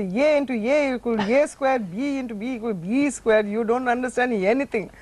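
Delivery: put-on South Indian accent. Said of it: "spoke in a South Indian accent".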